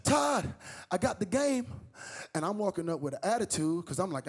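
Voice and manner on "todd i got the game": calling across the house. Retold or imitated. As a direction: call him in from another room. Mom calling son.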